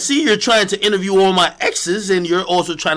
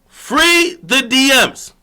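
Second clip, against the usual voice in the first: slow loud demand; 7 semitones higher, 4 dB louder, much slower than usual. Acted. Repeating demand to the crowd.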